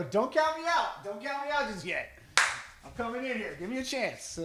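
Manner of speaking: milk "Don't count me out" like a desperate plea; mock pleading. Hamming up his begging text.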